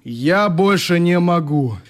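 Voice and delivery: plaintive. Acted. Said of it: "жалобно объяснил".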